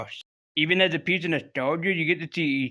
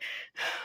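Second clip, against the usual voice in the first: sigh; 13 dB quieter than usual. Acted. Acting out Cable's weary reply.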